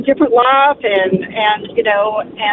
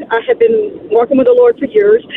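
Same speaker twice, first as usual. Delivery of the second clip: holding back tears; 7 semitones higher than usual. Real, not acted. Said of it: "I'm trying not to cry".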